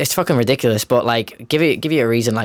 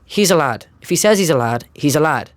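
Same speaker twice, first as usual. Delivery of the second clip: stern dealer telling off; 4 semitones higher than usual. Retold or imitated. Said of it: "And he goes".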